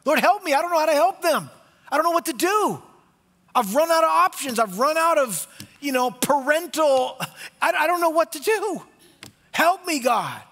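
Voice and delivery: high, loud pleading prayer; desperate prayer. Acted. Parent praying for their child, high loud desperate plea. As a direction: beg God with nothing left. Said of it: "That's your prayer".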